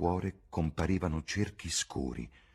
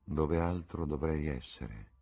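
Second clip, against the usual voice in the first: slow, vague reply; absent-minded; slower than usual. Acted. Young man answering Dorian in the opium den, absent-minded. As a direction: answer slowly, as if only half there. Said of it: "rispose l'altro con aria assente".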